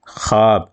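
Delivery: خواب said as "khaab", no w sound; silent waw. Shown as a demonstration. Teacher giving an example of a written but unread letter, silent waw. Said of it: "پڑھا نہیں جاتا".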